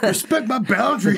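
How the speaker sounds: put-on high, laughing teen whine; whiny teen voice. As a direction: whine it like a sulky teenager. Mocking a moody teen.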